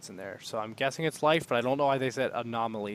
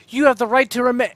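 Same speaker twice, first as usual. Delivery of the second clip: higher, louder mock police droid; droid cop voice; 9 semitones higher, 10 dB louder than usual. Droid reading rights before being killed, mock cop. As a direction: recite it like a robot cop. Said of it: "another droid is like".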